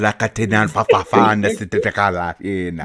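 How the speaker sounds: fast spat-out made-up syllables; mock fake curse. Retelling the woman's hex, fast and spat out. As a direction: rattle off a fake hex with intensity. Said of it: "spat out that sequence".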